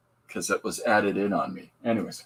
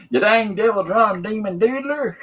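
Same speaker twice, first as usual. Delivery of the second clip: gleeful read-out; 11 semitones higher, 5 dB louder than usual. Shown as a demonstration. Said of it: "That's all how you say it".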